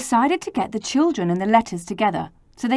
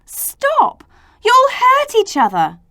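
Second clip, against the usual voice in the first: high, pleading call for order; stammering plea; 7 dB louder, slower than usual. A narrator's reading. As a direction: plead for calm, voice way up. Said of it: "A stammered".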